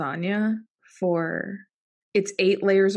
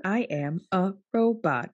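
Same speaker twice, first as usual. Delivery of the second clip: flat robot voice; even, mechanical robot syllables. Pretend. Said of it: "Talk like a human, not a robot".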